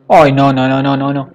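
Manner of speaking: startled, rising panic; alarmed no no no. Real, not acted. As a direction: caught off guard, pleading. Bear appears in game.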